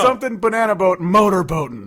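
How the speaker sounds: imitating the song, loud and amused; mock quoting song. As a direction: parody the lyric with glee. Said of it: "it's literally".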